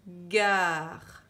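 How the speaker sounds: gare redit fort; dictée appuyée. Shown as a demonstration. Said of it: "On entend, après le G, on entend A". (répété fort en dictée)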